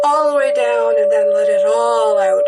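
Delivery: called out loud over the noise; loud breath cue. Real, not acted. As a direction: push it out, full voice. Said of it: "I like to take four deep breaths while I'm doing this".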